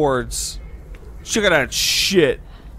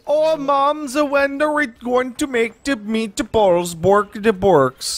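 high, slow goofy PewDiePie voice; PewDiePie impression; 6 semitones higher, slower than usual. High slow impression of PewDiePie for his friend. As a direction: ham up the YouTuber's playful sing-song. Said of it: "That's an excellent PewDiePie".

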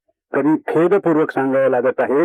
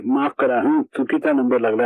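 soft, lower, overly gentle apology; 5 semitones lower than usual. Retold or imitated. Narrator politely telling a caller it's a wrong number, very softly. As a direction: apologise as sweetly as possible. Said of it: "कमालीच्या मऊ स्वरामध्ये".

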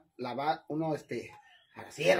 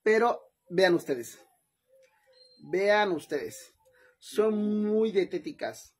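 slow showcase; 4 dB louder, slower than usual. Real, not acted. Slow showcase of diet quesadillas.

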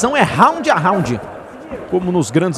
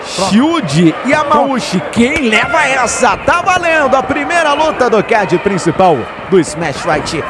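excited; 5 semitones higher, slower than usual. Real, not acted. Commentator hyping fight start.

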